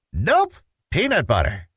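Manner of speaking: put-on a kid digging in his heels; sing-song stubborn child voice; stubborn Petey.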